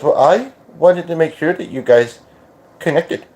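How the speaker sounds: put-on light accent verging on British-Australian. Relaying his words to her on a podcast, put-on accent. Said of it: "I'm not doing the accent to be rude".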